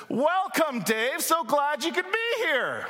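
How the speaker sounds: over-enunciate like talking past a language barrier; overly loud welcome. Retold or imitated. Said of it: "we just speak louder".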